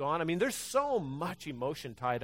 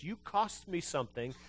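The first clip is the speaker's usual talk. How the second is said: normal talking voice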